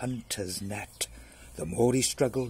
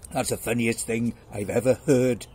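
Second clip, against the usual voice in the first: loud, lightly voiced lion; amused lion; 6 dB louder than usual. Lion mocking mouse's offer, loud amusement. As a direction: boom it out, amused.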